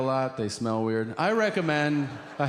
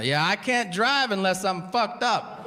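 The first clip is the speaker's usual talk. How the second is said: stoned driver; 6 semitones higher than usual. Retold or imitated.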